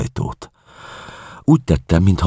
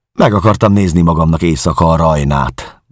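smiling; 4 semitones higher, 5 dB louder than usual. Acted. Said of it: "mondtam mosolyogva".

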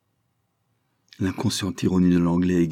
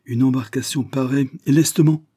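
loud, higher command; barked order; 7 semitones higher, 5 dB louder than usual. Acted. Commodore ordering a boat, commanding. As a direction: snap the order out. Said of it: "il ordonna".

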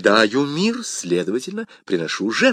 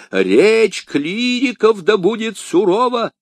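stern sermon tone; 10 semitones higher, 5 dB louder, slower than usual. A narrator's reading. Jesuit quoting Augustine sternly.

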